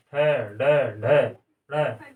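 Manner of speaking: ठ, ड, ढ, ढ़ said slowly as crisp retroflex sounds; slow retroflex letter drill; letter demo. Shown as a demonstration. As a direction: show the tongue curled back on each letter. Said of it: "इनका उच्चारण कहाँ से हो रहा है".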